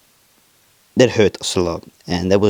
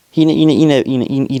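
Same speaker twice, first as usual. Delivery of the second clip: choking up; 5 semitones higher, 4 dB louder than usual. Real, not acted. Choking on brother's death.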